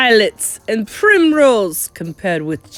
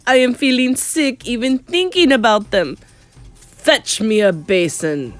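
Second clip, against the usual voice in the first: raised voice settling into a command; screamed; 5 semitones higher, 5 dB louder than usual. A narrator's reading. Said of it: "screamed the Grand High Witch".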